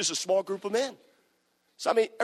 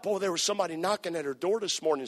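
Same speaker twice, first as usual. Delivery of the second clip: lightly voiced nosy neighbor; hint of a gossiping neighbor; small town busybody; 3 semitones lower, 5 dB quieter than usual. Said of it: "says the nosy neighbor".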